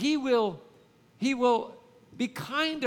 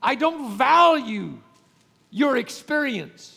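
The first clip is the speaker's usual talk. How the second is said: dismissive husband; 3 semitones higher, 6 dB louder than usual. Retold or imitated. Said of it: "he's basically telling her".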